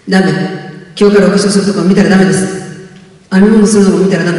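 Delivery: a mother snapping a firm no; a touch of a strict mother's scolding. Retold or imitated. Mother forbidding makeup watching.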